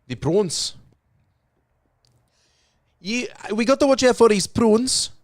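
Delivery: high put-on movie voice; put-on character voice. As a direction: play a silly film character. Mock film character voice.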